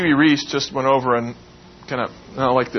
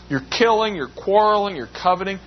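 each charge lifted much higher; pitched up, incredulous; 6 semitones higher than usual. Shown as a demonstration. Preacher to the congregation, repeating James's charges, pitched up in disbelief. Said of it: "Did you hear that?".

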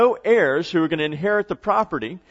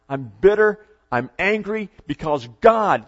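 emphatic acted bitterness, slowing down; bitter and angry; 2 semitones higher, 3 dB louder than usual. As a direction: declare it with contained anger. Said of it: "She's angry".

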